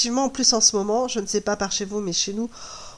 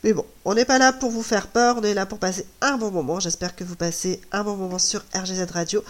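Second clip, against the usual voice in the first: tired hoarse voice straining; voice giving out; 5 semitones lower, faster than usual. Real, not acted. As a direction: voice worn out, barely holding. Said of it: "Je suis désolée pour ma voix".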